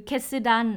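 "ketsudan" drawn out very slowly; slow Japanese word demo. Shown as a demonstration. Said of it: "ก็คือ". (ออกเสียง "ketsudan" ช้าๆ ชัดๆ)

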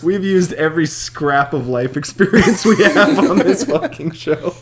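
speaking through laughter; giggling words out, slowed; laughing. Real, not acted.

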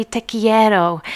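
te quiero said slowly with Spanish vowels; Spanish words. Shown as a demonstration. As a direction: sound out te quiero carefully. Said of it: "they say".

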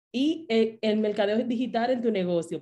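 choking. Real, not acted. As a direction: voice catching from choking. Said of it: "medio me ahogué".

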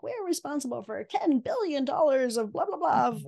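lightly imitated boasting from guest bios; boastful bio. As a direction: recite someone's big numbers, a touch mockingly. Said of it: "they say things like".

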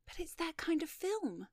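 high, light feminine voice; smiling. Acted. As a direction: explain sweetly with a smile. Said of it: "smiled Miss Kettlewell".

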